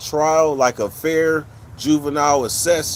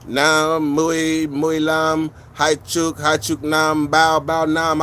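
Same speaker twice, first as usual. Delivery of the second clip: counting in Vietnamese; much slower than usual. Shown as a demonstration. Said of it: "I count it back in Vietnamese".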